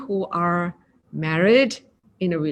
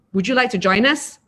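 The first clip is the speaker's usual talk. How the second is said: louder, pushy question; unfriendly tone; 2 semitones higher, 4 dB louder than usual. Shown as a demonstration. Teacher showing a rude tone of the same invitation, louder. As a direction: make the invite sound unwelcoming. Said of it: "If we're using a different tone".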